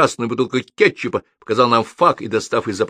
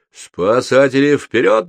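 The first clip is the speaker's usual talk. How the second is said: drawn-out, rising battle cry; blurted rallying call; 6 semitones higher, 4 dB louder, slower than usual. A narrator's reading. Doctor joining the rescue cry, slow and high. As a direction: sound the charge in a raised voice. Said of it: "брякнул доктор".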